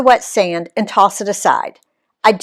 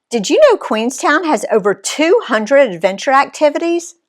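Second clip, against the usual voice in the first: eager pitch; 6 semitones higher than usual. A narrator's reading.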